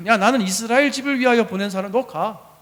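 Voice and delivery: mildly stern acted rebuke; firm retelling of a rebuff; harsh dismissal. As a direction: brush her off bluntly. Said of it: "이렇게 세게 말씀을 하셔요".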